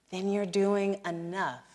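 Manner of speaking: "Then you're doing enough" drawn out, pitched high; emphatic reassurance. Real, not acted. Repeats reassurance slowly for emphasis.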